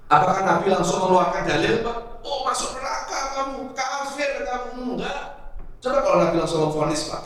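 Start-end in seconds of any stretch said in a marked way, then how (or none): 2.2-4.9 harsh condemnation. Acted. Harsh verdict Prophet did not give.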